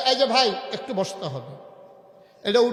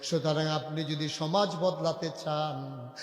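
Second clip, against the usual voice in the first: melodic sermon recitation; 2 semitones lower, 3 dB quieter than usual. Real, not acted. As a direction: intone steadily, stretching phrase endings. Preacher's measured melodic recitation.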